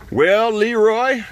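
high, slow sly greeting; a hint of a sneaky villain. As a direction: lure the boy in sweetly.

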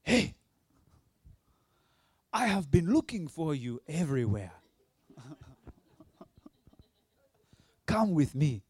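loud, eager call; excited loud greeting. Retold or imitated. Stranger at the shoulder calls out, loud and eager. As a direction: grab him and call out happily. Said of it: "this hand grips me on the shoulder and says".

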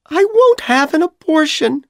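very high, loud shout; hammed-up furious shout. A narrator's reading. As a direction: shout the refusal at him. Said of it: "Dorothy shouted".

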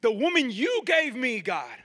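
"you" lifted and pressed as an accusation; stress on YOU. Acted. Adam blaming God, stressing "you". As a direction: lean hard on "you", then drop on the name. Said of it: "Adam was blaming God".

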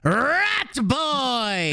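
high squeaky rat cry; twitchy squeaking rat voice. Retold or imitated. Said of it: "just all these Rat Boy lines".

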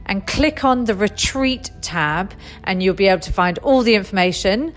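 upbeat, projected promo read; host ad read. Acted. Host invites movement mums to a weekend retreat, ad read. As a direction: pitch it to the listeners with lively emphasis.

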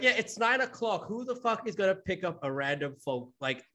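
retelling a retort in mock disbelief; indignant retort. Co-host voicing his reply to the caller, indignant.

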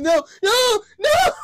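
high whiny crying no; mock tearful pleading; crying kid pleading. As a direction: beg like a scared child. Crying child voiced.

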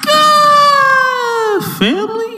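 high, loud, stretched hype call; crazy hype intro. Acted. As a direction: scream the intro like a hype man. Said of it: "that crazy-ass intro".

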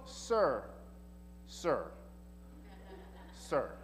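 soft, falling repeated sir. Retold or imitated. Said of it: "then she goes".

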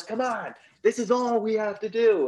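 high, loud goading; mock urging. Gunman urges the cop to draw, high loud urging. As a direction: imitate a gunman pressing for a duel.

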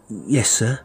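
put-on meek apprentice boy. Apprentice replying to his threatening master, meekly. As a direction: answer up dutifully.

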